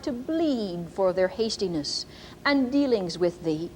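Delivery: slow, solemn King James cadence; prophetic reading. Shown as a demonstration. Preacher reads the prophecy to the congregation, slow and solemn. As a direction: intone it like a prophecy given in church. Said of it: "I'm going to read to you".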